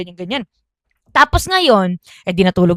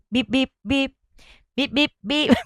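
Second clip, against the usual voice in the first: soft spoken beep beep of a motorbike horn; mock horn beeps; 3 semitones higher, 5 dB quieter than usual. Cousin honking at the lone cousin, soft mock beeps. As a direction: tap out the horn sounds softly.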